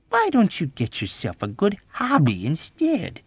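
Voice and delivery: high, lilting friendly inquiry; keen, chummy question; friendly interest. A narrator's reading. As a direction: suggest it amiably. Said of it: "inquired with friendly interest".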